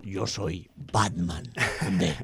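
low, slow, gruff-sounding Batman parody; mock superhero voice. Host playing the deluded superhero, a slow, low mock-hero voice. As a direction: drop the pitch and drawl it like a movie hero. Voicing the amnesiac fake superhero.

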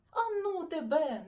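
loud, high impatient outburst; impatient exclamation. Acted. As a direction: snap it out, fed up. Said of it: "нетерпляче вигукнув Сашко Циган".

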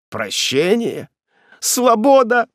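slow then high loud exclamation; rising joy, ending in a cry; joyful cry. A narrator's reading. Ethel repeats the good news, joyful. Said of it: "радостно повторила Этель".

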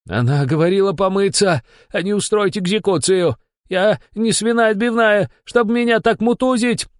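high, loud protest choking on steam; loud wailing. A narrator's reading. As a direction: wail back through the steam. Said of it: "Захлёбываясь паром, заголосил в ответ следак". (высокий громкий вопль сквозь пар)

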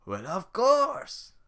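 slow drawn-out mock agreement; sarcastic. Shrek mocking Donkey's request, sarcastic. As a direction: drip with sarcasm.

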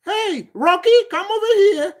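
high, called out to a dog; calling a dog. Retold or imitated. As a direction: call the dog over from across the room. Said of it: "the person gonna speak in English".

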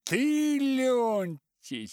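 very high, loud call. Acted. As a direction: call his name sharply. Old writer calls him out.

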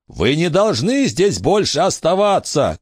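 high urgent shout. A narrator's reading. Billy shouting at the ghost to leave. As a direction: order the ghost out. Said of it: "крикнул Билли".

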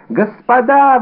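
high, loud desperate cry; frightened shopkeeper wails to the musketeers; wailing cry. A narrator's reading. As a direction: cry out for help in panic. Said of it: "возопил он".

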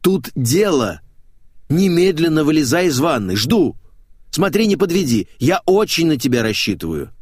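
loud insistent orders; urgent shouting. Acted. Friend on the phone yelling at him to come, urgent shout. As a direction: hurry him up, loudly. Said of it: "заорал Максим".

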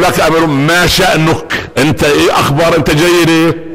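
slow explaining. Retold or imitated. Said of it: "عمر بن عبد يقول".

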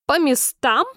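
high, sharp bellow of an order; a touch of the queen's thunder; thunderous bark. A narrator's reading. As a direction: roar the command to all players. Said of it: "громовым голосом рявкнула королева".

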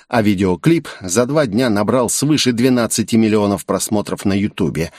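ordinary delivery

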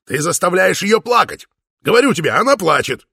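high, loud pleading yell; desperate shouting. A narrator's reading. Father yells in despair that his daughter is crying. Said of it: "в отчаянии кричал Упа".

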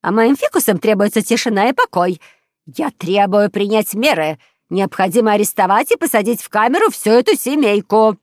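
loud, high indignant demands; enraged. A narrator's reading. Neighbour demanding police jail the family, enraged. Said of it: "шипела от ярости".

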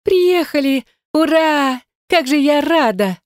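the sister greets her brother and Yana with a squeal; delighted squeal. Acted. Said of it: "с восторгом завизжала".

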